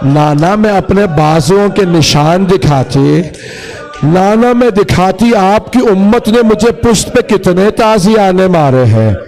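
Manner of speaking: rising plaintive appeal to her grandfather; sorrowful, wounded plea; grieving Zainab, lamenting. Acted. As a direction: build the lament to a high cry.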